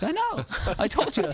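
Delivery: high, giggling told-you-so; laughing gloat. Retold or imitated. Dad gloating to daughter.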